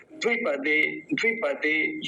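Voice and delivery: द्विपदे with a quick first vowel; short इ in द्विपदे. Shown as a demonstration. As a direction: keep the द्वि of द्विपदे short. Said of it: "ये भी जल्दी बोला जाएगा". (द्विपदे में छोटी इ)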